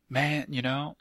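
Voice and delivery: searching for a bad Ted accent; half-found mock Ted accent. Host trying to get his bad accent back, half-found Ted accent. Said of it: "let me get my, my bad accent back".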